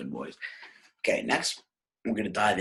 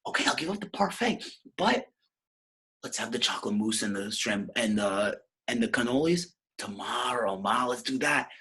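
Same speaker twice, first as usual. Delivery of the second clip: Scone; 3 semitones higher than usual. Acted. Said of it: "Scone says".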